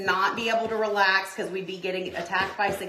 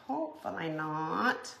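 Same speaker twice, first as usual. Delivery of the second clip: "Hopefully not" dropped to a soft murmur, rising on "Hopefully"; quiet echo; 4 semitones lower, 8 dB quieter than usual. Shown as a demonstration. Echoing her own hope to viewers, soft murmured "Hopefully". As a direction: repeat "Hopefully not" under the breath.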